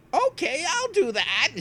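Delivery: put-on high quavering confused old man. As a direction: squeak it out like a muddled old man. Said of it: "I'm doing my old man voice".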